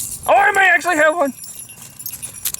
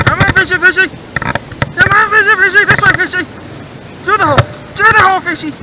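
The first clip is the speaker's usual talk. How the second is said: eager little chant to a fish; playful, excited coaxing; 3 semitones higher, faster than usual. Real, not acted. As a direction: urge it along in short, repeated calls. Coaxing fish through the hole.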